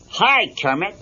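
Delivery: chirpy comic bear saying hi; lightly voiced Fozzie.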